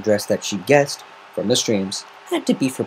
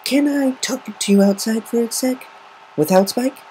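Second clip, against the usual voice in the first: nervous. A narrator's reading. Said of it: "bit her lip nervously and said".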